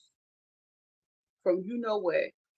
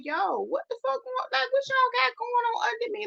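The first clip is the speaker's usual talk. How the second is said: retold alarmed question; 14 semitones higher than usual. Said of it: "I was like".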